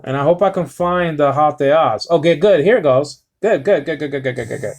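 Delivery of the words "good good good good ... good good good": rapid run of softening mutters; lightly Popeye-ish repeated mumble; Popeye-like muttering. Real, not acted. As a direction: mutter it over and over, trailing softer. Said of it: "Sound like Popeye".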